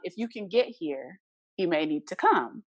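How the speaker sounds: slow, steady and unhurried; calm. Retold or imitated. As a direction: keep it calm despite the danger. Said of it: "You said that so calm".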